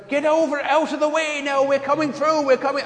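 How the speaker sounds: high, insistent mock shout out of a car window; comic high-pitched calling out; imitating father calling out. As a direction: holler at people to clear the road.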